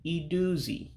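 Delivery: iduzi said as ee-doo-zee. Shown as a demonstration. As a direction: demonstrate iduzi with each i as ee. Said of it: "the I's make an E sound".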